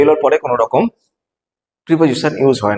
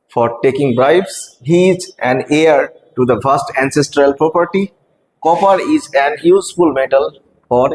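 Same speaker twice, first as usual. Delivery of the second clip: slow, careful read-aloud of each sentence; reading quiz options; much slower than usual. Shown as a demonstration. Teacher reading options slowly to students. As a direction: spell out every option slowly for the class.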